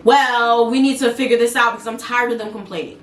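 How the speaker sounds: a mild imitation of a forceful, disrespectful boss; the boss pushing the team, mildly forceful. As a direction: push it like a bossy manager. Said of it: "The way he talked was just like that, like, just forceful".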